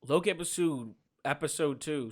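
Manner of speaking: words running together, slurred; slurring the words; slurred speech. Real, not acted. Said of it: "Sorry, I'm slurring here".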